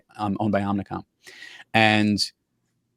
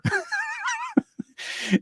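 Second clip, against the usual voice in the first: high, soft giggle; high-pitched laugh; 6 dB quieter than usual. Real, not acted. Laughing after imitating a rock star's accent. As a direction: laugh lightly at your own impression.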